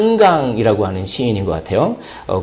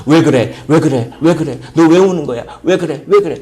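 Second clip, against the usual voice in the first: fretful asking; 2 semitones higher than usual. Retold or imitated. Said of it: "이런 얘기를 많이 해요".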